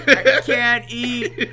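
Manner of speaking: very slow, high, drawn-out whine; slow tormented whine. Acted. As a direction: stretch each word out in agony. Repeats the whine much slower.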